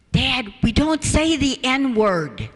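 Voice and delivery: slow, gentle correction of her father; patient correction. Retold or imitated. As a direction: tell him off gently, like a rule to a child.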